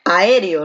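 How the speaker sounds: "Aéreo" with the force on its first E; stress on second syllable. Shown as a demonstration. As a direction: lean on the É of "Aéreo". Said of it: "la fuerza de voz recae aquí en la E".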